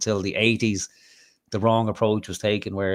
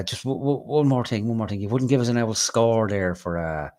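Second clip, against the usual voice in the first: wheedling traveler; 3 semitones higher than usual. Retold or imitated. Traveler asks for diesel money.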